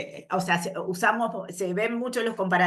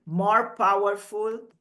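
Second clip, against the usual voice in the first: More nadrukkelijk vooraan; stress on more; slower than usual. Shown as a demonstration. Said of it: "se le agrega la palabra more adelante".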